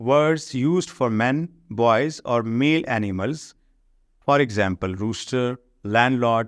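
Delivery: slow, careful reading of the English rule; slow textbook reading. Shown as a demonstration. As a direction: read the rule out word by word for the class. Reads definition slowly. (انگریزی قاعدہ آہستہ آہستہ پڑھ کر سنانا)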